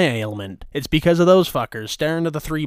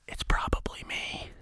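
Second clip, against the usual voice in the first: unvoiced, very soft whisper; hushed confession under the breath; whispered aside; 12 dB quieter than usual. Real, not acted. Aside after asking what's ailing her.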